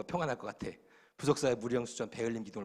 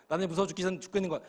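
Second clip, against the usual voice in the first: ordinary talk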